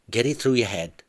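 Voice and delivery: husband loses patience with wife; angry insistence. Acted. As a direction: drive it into her head.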